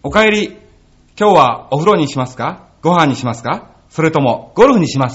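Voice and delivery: lightly put-on welcome-home voice, low; young golfer's ringtone voice. Guest doing the golfer's ringtone on request, lightly mimicked. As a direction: recite it like a ringtone message, gently acted. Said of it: "チャックボイス".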